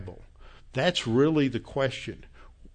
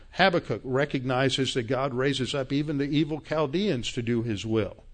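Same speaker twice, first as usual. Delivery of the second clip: normal talking voice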